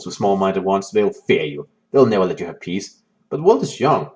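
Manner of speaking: ominous storybook narration; story narration. A narrator's reading. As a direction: read the villain's rise darkly. Reading the game's story text.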